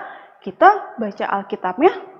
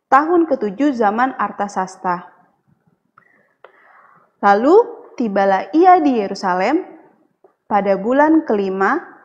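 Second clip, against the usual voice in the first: Bible reading. Acted. Reads Bible passage aloud.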